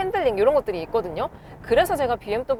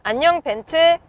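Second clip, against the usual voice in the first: talking to voice assistant; 5 semitones higher, 6 dB louder than usual. Real, not acted. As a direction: clear loud wake word to the car. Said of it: "말로도 부를 수가 있거든요".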